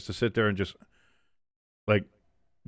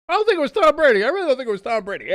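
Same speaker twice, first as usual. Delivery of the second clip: disbelief; 14 semitones higher, 6 dB louder, faster than usual. Real, not acted. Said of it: "reacting to trivia answer".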